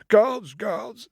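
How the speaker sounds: high, loud royal summons; king calling. Acted. King calling his guards to help, high and loud. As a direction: call the guards urgently.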